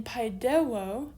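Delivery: "paidewo" with the second syllable accented; stress on second syllable. Shown as a demonstration. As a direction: put the stress on the middle "de" of "paidewo". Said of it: "the second syllable is accented".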